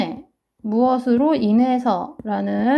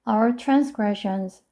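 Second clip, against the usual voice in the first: our transgressions read very slowly, word by word; much slower than usual. Shown as a demonstration. Teacher explains the verse to students, very slow. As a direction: drag each word out for learners.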